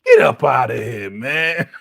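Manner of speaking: shouted brush-off; loud dismissal. Real, not acted. Viewer yelling at Donna to leave. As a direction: yell them out of the room. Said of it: "I was like".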